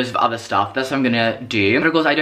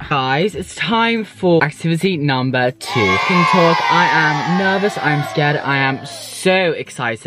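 shouting; 3 semitones higher, 4 dB louder than usual. Real, not acted. Loud announcement of activity.

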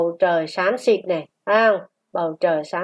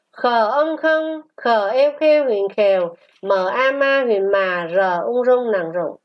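spelling drill. Shown as a demonstration. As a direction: spell it out syllable by syllable for pupils. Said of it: "Luyện đọc qua từ". (đánh vần chậm, ngân nga)

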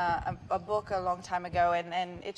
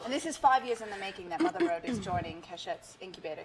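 put-on London accent. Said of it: "My accent's going in and out".

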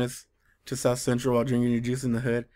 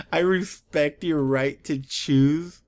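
slow, drawn-out mocking quote; stilted mock solemnity; slower than usual. Reader quoting the Transformer's silly line, stilted mock solemnity. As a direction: draw the line out with mock earnestness. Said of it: "Who talks like that?".

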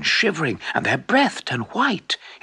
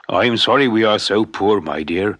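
lower, lightly voiced old man, a touch sad; understated apology to his wife; sorry shoemaker; 4 semitones lower, 3 dB louder than usual. Shoemaker apologizing to his wife at bedtime, lower voice.

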